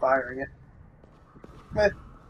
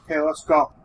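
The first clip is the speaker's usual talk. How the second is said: higher, louder mocking quote; mock Ellie voice; 8 semitones higher, 5 dB louder than usual. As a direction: parrot her line in a girly voice.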